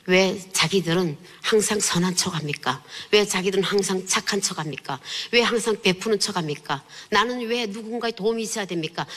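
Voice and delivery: retold protest, one insistent question after another; reproachful questioning. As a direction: argue with God, understated, pitch climbing question by question. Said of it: "한참을 따지고 도는데".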